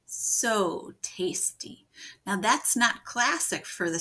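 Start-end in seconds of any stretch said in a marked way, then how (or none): 0.1-1.9 slow, drawn-out wolf relish; wolf savoring. Acted. Wolf savoring his meal, slow and drawn out. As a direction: stretch it out, belly full. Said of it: "make it sound like the wolf".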